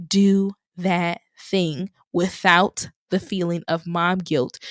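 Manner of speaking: ordinary delivery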